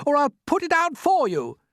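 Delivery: high, loud threat; threatening shout. Acted. Centipede threatens glowworm, loud and high. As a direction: bark the threat upward. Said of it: "shouted the centipede".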